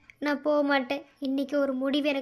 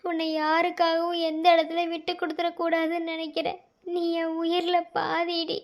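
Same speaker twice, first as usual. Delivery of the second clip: tender confession; 2 semitones higher than usual. Acted.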